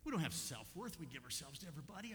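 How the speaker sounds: gently said, softening toward the end; affectionate, kindly. Real, not acted. Preacher telling church about self-worth, affectionately and kindly. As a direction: say a hard truth kindly. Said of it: "I say that so affectionately and kindly".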